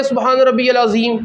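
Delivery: العظیم with a plain light z in place of ظ; mispronounced demo. Shown as a demonstration. Teacher warning which reading breaks the prayer, mispronounced demo. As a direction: say العظیم wrongly, as if spelt with ز. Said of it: "نماز ٹوٹ جائے گی".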